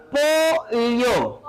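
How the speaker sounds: "Pollo" drawn out as "po-lyo"; pollo with elle. Shown as a demonstration. Teacher isolating the sound, "Pollo" as "po-lyo". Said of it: "ese es el Y".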